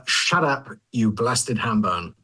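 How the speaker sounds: "Shut up" as shaddap, then a slow "ham bone"; "Shut up" with a D, the rest drawn out; model line reading. Shown as a demonstration. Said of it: "let's hear that line again".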